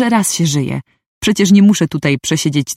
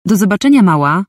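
called out; 4 semitones higher than usual. Acted. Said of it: "krzyknął za mną ten".

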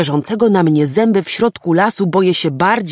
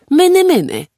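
high, louder call of "Myny, myny"; calling again; 12 semitones higher, 4 dB louder than usual. A narrator's reading. Boy calling the growling animal again, high coaxing call. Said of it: "znowu zawołał do zwierzaka".

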